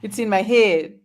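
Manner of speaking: put-on borrowed drawled accent on "head"; imitating Clint's accent. Telling Clint she's getting his accent, imitated accent. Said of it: "I'm getting your accent now".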